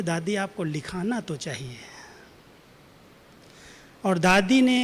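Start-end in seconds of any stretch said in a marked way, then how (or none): 0.0-1.8 soft, coaxing plea; gently urging her to dictate; affectionate. Retold or imitated. Gulzar Dadi coaxing Dadi to dictate a letter, softly pleading. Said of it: "तो दादी बहुत प्यार से बोलती है".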